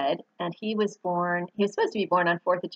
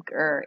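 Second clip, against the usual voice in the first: purr-like grr; 3 semitones lower than usual. Retold or imitated. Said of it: "more of a purr than a growl".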